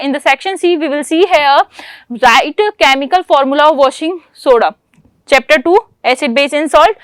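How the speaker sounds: slow, deliberate exam-paper read; reading the question. Acted. Teacher reading the question paper to the class, slow and deliberate. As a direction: read each word out slowly for students to copy.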